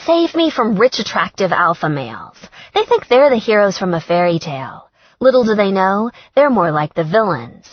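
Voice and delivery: skewer the alpha males; sardonic tirade. Acted. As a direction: redhead scoffs at rich men, sardonic.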